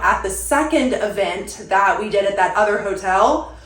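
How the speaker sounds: breathless from talking fast; out of breath. Real, not acted. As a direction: talk while short of air. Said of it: "oh, I'm out of breath".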